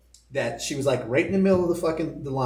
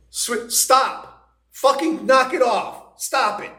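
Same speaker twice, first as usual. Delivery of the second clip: higher, mildly raised mock yell; a touch of an irritated director yelling; retold yelling; 7 semitones higher, much slower than usual. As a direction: snap at her to quit it, half-acted. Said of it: "He's, like, yelling at her now".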